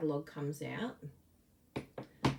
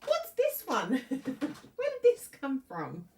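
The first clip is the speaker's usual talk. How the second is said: mock surprise; 7 semitones higher, 5 dB louder, slower than usual. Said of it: "We'll be like".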